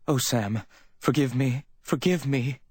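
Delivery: high, choked pleading; choked cry. A narrator's reading. Distraught woman begging Sam's forgiveness, choked. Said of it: "she cried in a choked voice".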